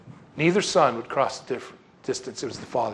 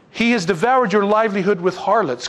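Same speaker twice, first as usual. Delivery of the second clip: raised-pitch emphatic charge; indignant accusation; 5 semitones higher, 3 dB louder than usual. Acted. Older son accuses his brother of wasting money, indignant. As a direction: hammer out the accusation.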